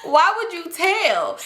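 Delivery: high, drawn-out plea through laughter; laughing disbelief. Retold or imitated. Aunt asking child why tattle, laughing disbelief. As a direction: break up laughing as you protest.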